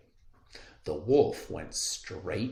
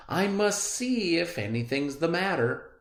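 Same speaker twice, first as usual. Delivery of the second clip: concerned hunter; 10 semitones higher, 4 dB louder than usual. Acted.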